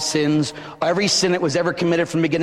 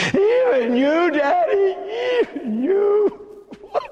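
much higher, breaking plea; plead, heartbroken; anguished cry; 13 semitones higher than usual. Acted. Jesus to his Father, heartbroken breaking plea.

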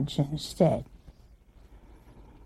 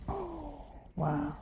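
mock hushed shock; 7 semitones higher, 17 dB quieter than usual.

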